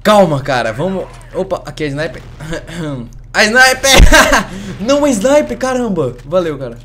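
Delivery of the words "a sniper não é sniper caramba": laughing. Real, not acted. Laughing at a sniper in game.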